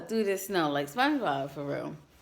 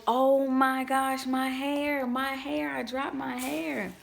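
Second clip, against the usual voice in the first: higher, louder, slowed panicked cry over the hair; retold panic; 7 semitones higher, 3 dB louder, slower than usual. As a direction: relive the moment you realised the hair was gone. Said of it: "Yo, I'm freaking out".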